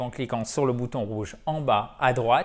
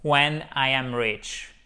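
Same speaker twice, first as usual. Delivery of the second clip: When I am rich, said slowly and clearly; slow model sentence; much slower than usual. Shown as a demonstration. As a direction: spell out When I am rich word by word. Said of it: "on met un présent simple". (phrase modèle lente)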